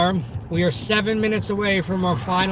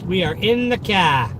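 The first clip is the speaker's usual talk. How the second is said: Boston accent with an R-less car. Shown as a demonstration. Streamer showing off to viewers, Boston accent. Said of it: "my Boston accent".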